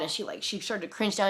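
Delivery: ordinary delivery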